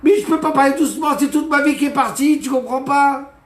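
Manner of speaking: high, loud, fast desperate shout. Acted. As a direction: refuse to calm down, yell it. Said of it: "viens parler doucement avec moi".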